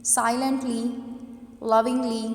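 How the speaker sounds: silently, lovingly, each with a loud first syllable; stress on first syllable. Shown as a demonstration. Teacher demonstrating to students, first syllables of silently, lovingly stressed. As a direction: punch SI in silently, LOV in lovingly. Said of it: "हम loudly pronounce कर रहे हैं".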